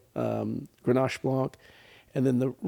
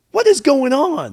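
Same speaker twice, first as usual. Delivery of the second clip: loud, high, drawn-out question; retold bewilderment; 12 semitones higher, 6 dB louder than usual. Shop owner calling from the register over crying, bewildered. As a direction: imitate a baffled demand, stretched out slowly.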